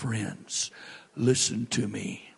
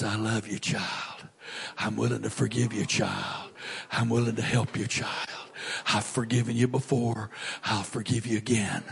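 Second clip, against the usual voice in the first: tender voice of God; 3 semitones lower, 4 dB quieter than usual. Acted. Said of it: "wait on the second voice".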